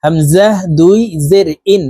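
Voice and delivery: measured drill, "ইন" starting on a hamza, no y glide; alif read as hamza. Shown as a demonstration. Teacher shows viewers alif named "হামজাহ", ending on glottal "ইন". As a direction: spell it out "হামজাহ", then "ইন" with a glottal onset. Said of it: "আলিফকে হামজা বলে উচ্চারণ করব".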